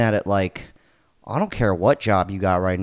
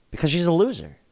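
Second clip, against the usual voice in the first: biting, mocking sarcasm, pitched up; 5 semitones higher than usual. Speaker defends an older job seeker against online critics, sarcastic. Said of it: "I'm being sarcastic".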